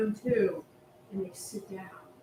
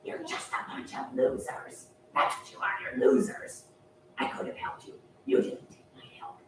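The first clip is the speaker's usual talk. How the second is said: snarl; 2 semitones higher than usual. Acted. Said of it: "he had this snarl".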